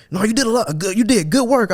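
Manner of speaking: high squeaky manager impression; mocking the plant manager, pitched far up. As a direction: pitch it way up to mock him. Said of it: "He said".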